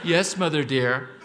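playful imitation of an obedient little boy; hammed-up good boy answering his mother; dutiful boy. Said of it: "I was supposed to call her mother dear".

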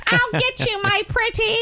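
high cackling Wicked Witch voice. Pretend. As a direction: screech it like a storybook witch. Witch quote after witch question.

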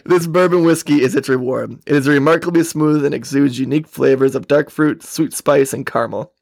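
lightly put-on Texas accent. Host reads tasting notes from label, in Texas accent. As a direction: sell the bourbon as a Texan. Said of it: "read it in a Texas accent".

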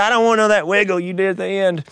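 hammed-up big man's voice, pitched high; gruff board chair. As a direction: imitate a gruff official handing down a ruling. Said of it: "this big, gruff, six-foot-six gentleman".

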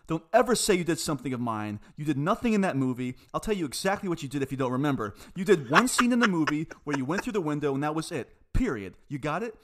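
retold scolding. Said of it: "I said".

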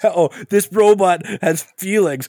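high, fast mocking tough-guy voice; high mocking Bill Burr. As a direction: ham up a brutish soldier, pitched high. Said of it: "I should have done all that in a Boston accent".

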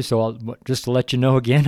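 stumbling over beard in mouth; talking with a beard in mouth. Real, not acted. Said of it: "I'm stumbling here. I'm having trouble with my beard. It's in my mouth".

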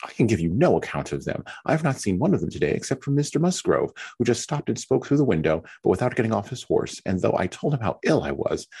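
fretful self-pitying young wife, lightly voiced; Mary's complaining voice. Mary complains to Anne about being left alone, lightly whiny.

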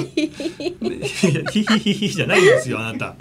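mock giggle, then laughing; imitating giggle. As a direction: tease her with a fake giggle. Mimics guest's giggling.

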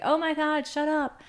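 put-on high, exasperated teen; mock teen groan. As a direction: roll your eyes at the parent. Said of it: "they're gonna be like".

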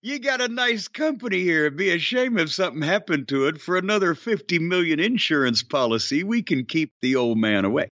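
mobster shakedown, friendly but threatening; smiling menacing loan shark. Pretend. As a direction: lean in like a smiling extortionist. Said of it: "what it sounds like".

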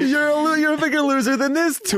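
high, teasing taunt; mock insult.

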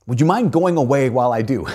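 lightly voiced small girl, unsure; little girl voice. Preacher voicing Jill asking the lion, timid girl voice. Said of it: "this little girl says".

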